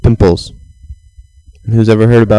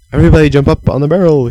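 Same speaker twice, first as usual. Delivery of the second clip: rallying call; 5 semitones higher, faster than usual. Acted. Frigo calls the crowd.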